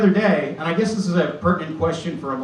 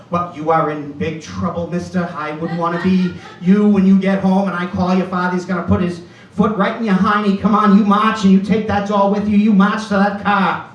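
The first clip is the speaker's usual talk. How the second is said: mock scolding mom; 4 dB louder than usual. Mom scolds him in front of nuns.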